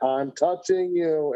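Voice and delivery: "I'm touching you" stretched out slowly, sing-song tease; slow childish taunt. Shown as a demonstration. Son showing friends his father's slow, taunting "I'm touching you". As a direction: drag out "touching" like a kid needling someone. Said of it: "I literally say it just like that".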